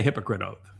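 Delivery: "hypocrite oath" said like hypocrite, stress on the first syllable "hyp"; pun pronunciation. Shown as a demonstration. Joking about Gazan doctors, "hypocrite oath" stressed on "hyp". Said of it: "slightly different pronunciation".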